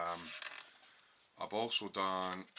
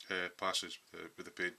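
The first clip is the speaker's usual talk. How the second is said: talking through hiccups; hiccuping. Real, not acted. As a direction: hiccups catching on the words. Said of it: "Excuse me, I'm hiccuping".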